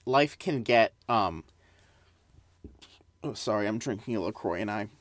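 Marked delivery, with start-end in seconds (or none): 3.2-4.9 just burped, apologizing; speaking right after a burp. Real, not acted. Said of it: "I burped".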